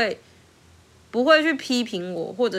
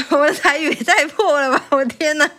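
laughing dismay; 6 semitones higher, 6 dB louder than usual. Real, not acted.

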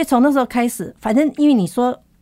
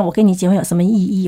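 quick, louder mock scolding of the husband; retold angry scolding; 4 dB louder, faster than usual. Wife scolding husband over groceries, quick and louder. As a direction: fire it off at him, half-replaying the anger. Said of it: "我就很生气，就骂他说".

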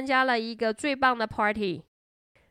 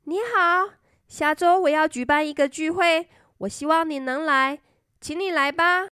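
cheerful friend; 4 semitones higher, 3 dB louder than usual. Acted. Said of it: "她最好的朋友说".

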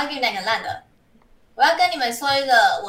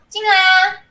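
loud, higher call to come in; 8 semitones higher, 6 dB louder, slower than usual. A narrator's reading. Nurse calling the man into the clinic, louder. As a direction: call him in, a bit impatient.

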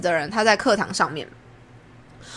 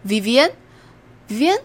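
slow, hesitant, higher voice calling a name; 迟疑地叫名字; 5 semitones higher, much slower than usual. Retold or imitated. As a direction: drag the name out, unsure. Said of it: "就是指着我说". (迟疑地慢慢叫名字)

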